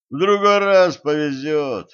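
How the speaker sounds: hearty consolation; consoling. A narrator's reading. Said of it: "утешил Кощей".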